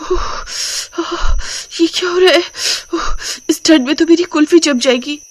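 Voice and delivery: shivering and puzzled in the cold; shivering bride. Acted.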